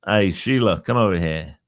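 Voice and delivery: put-on Australian accent; amateur mock Australian, casual pub talk. Host pretends to chat up ladies in a pub, Australian accent. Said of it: "talk like an Au-, an Australian".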